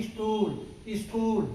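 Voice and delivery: स्टूल said as istool with a short i in front; i before s. Shown as a demonstration. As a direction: add a short i before स्कूल. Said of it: "उसके पहले ई का प्रयोग करते हैं".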